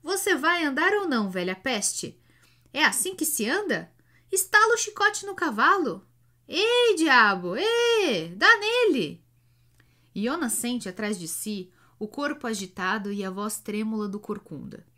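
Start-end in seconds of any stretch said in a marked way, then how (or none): 0.0-9.2 much higher, louder yelling; furious yelling. A narrator's reading. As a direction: scream at the driver to go. Hunchback yelling at slow driver.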